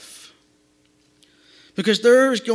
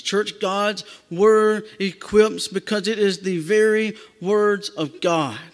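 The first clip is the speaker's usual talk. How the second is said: slow emphatic preaching; slower than usual. Acted. Preacher slows for key truth.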